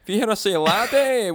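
amateur Scottish, landing hard on laddie; bad Scottish accent. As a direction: have a daft go at Scottish. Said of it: "only thing we can say in Scottish".

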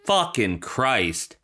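drawn-out resigned swearing; deflated, exasperated mutter; weary exasperation. Acted. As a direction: let it out in disbelief. Exasperated at the coincidence.

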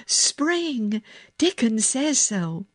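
high, happy proclamation; thrilled storybook child; excited cry. A narrator's reading. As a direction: announce it eagerly, pitched well up. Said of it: "she cried".

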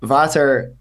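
"Water" said with a Dutch-sounding v and an open a, "vater"; retry "Water" the local way, v not w; Dutch-style accent. Retold or imitated. Repeating the order to the bartender in a Dutch accent. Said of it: "You had to put the accent on it".

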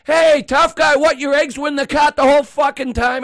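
high, loud retold taunt; pissed off. Bystander to customer whose eggs turned up, pissed off. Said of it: "Now, I'm getting pissed off".

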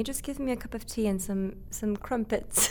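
a light mock British accent, slowing on "crumpets". Teasing the interviewer in a light mock British accent. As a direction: play at being British, half joking. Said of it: "I'm worried that was offensive".

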